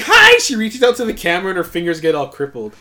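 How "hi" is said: high, loud, shrill greeting; Sugar. Retold or imitated. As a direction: burst out with an annoyingly high hello. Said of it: "When she goes like".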